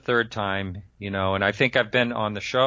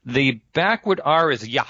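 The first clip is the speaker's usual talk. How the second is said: Russian accent; 4 semitones higher, 3 dB louder than usual. Shown as a demonstration. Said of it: "you're sounding very, like, Russian".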